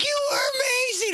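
high-pitched, gushing mock-mom voice; gushing praise. Mom cheering her son after a lost game, gushing. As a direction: imitate an overjoyed mother, voice leaping way up. Mother gushing in a retold scene.

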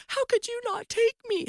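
high-pitched, mock-tearful complaint; whiny reproach. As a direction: whine it like a wronged newlywed. Wife's tearful reproach, retold.

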